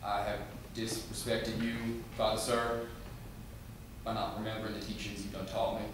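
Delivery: soft, halting, nervous pleading; meek stammering confession. Acted. Young boy confesses to his stern father, meek and hesitant. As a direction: stumble through it quietly, restarting words.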